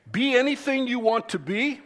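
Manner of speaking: high lifted ANYTHING with a rise; mock upbeat slogan; quizzing slogan. Shown as a demonstration. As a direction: pose it like a catchphrase. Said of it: "Here's the quiz".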